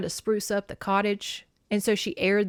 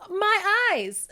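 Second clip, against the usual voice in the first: dazzled guard; 12 semitones higher than usual. Retold or imitated. Guards blinded by her glow.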